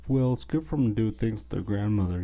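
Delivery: quick mocking imitation of a passive-aggressive mom; lightly mimicked needling, rattled off. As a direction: toss it off fast as a mild guilt trip. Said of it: "that kind of passive-aggressive".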